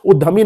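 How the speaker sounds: उद्यमी said as "uddhami", Y left out; wrong DH sound. Shown as a demonstration. Teacher warning against a mistake, उद्यमी said as "uddhami". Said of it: "उद्यमी नहीं होता है".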